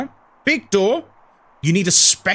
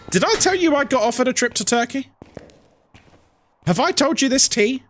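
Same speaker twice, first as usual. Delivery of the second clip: ordinary talk, nothing marked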